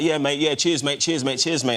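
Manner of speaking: lightly imitated English accent; quick imitation of a matey English accent. Denzel greeting a fan with cheers, mate, lightly mimicked English accent. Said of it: "came to me in English accent".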